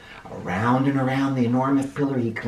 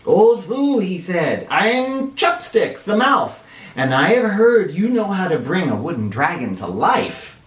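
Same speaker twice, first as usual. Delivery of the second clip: squeaky mouse; 4 semitones higher than usual. Acted. Mouse calls to old Fu.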